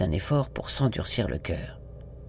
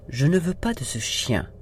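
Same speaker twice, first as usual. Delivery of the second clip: firm refusal; 4 semitones higher than usual. Acted. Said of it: "déclara-t-elle avec fermeté".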